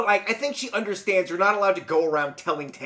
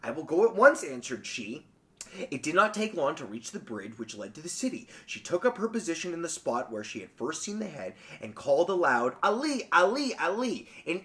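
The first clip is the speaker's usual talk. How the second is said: measured, quieter storybook reading; story narration; 3 semitones lower, 4 dB quieter than usual. A narrator's reading. Podcaster reading a folk tale to co-host, story narration. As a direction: read the tale with lilting emphasis.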